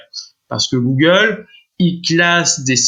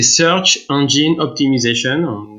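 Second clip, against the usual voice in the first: slow English words with a French accent; slower than usual. Real, not acted. Explaining the SEO acronym to the host, in French-accented English. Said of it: "Désolé pour mon accent anglais".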